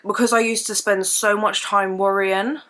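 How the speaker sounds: usual speaking voice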